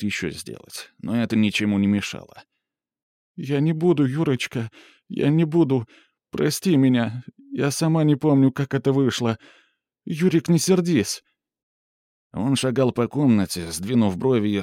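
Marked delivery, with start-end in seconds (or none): 3.4-11.2 high, begging voice; pleading woman. Acted. Mura begging Yuri's forgiveness, high and pleading. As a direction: beg him not to be angry.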